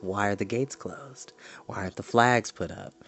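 soft whispered questions. Real, not acted. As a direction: whisper as if noticing clues. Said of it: "whispered questions".

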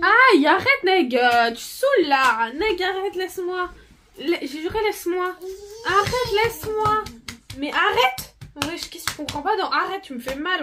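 pained yelling. Real, not acted. Sister hurting her, protests.

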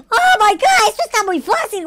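loud, high outburst; excited exclamation. Real, not acted. Gamer finds the maze very easy, excited exclamation.

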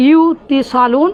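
ইউতিসালুন drawn out slowly with a small rise; slow model word. Shown as a demonstration. Teacher contrasts the original form for the class, slow. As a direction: stretch ইউতিসালুন for students. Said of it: "যখন ইত্তিসালুন হলো".

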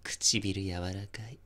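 breathy obsessed whisper. Acted. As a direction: whisper in awe, too close. Kissing sleeping woman.

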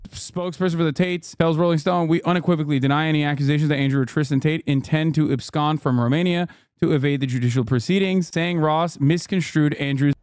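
fast news-article read. Acted. Streamer reads the news story fast to chat. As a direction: rattle off the report quickly.

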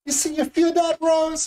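put-on high, thick Cajun accent as a swooning Jack; hammed-up Cajun lover whispering to Rose; Cajun Jack impression. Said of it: "So I'm gonna do my impression of it".

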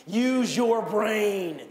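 "Use your brain" drawn out slowly, each word apart; slow call and response. Shown as a demonstration. Preacher leading the church to repeat the phrase, slow. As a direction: lead the congregation in saying it slowly. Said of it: "Would you say that with me?".

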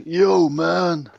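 loud, high mock street greeting; imitating a chav. Describing a type of person in Scotland, mock chav voice. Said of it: "who's all like".

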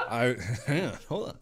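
breaking up with laughter; can't get through it for laughing. Real, not acted. Cracking up mid-quote.

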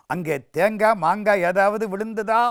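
lightly acted suspicious big brother; stern questioning. Elder brother interrogates.

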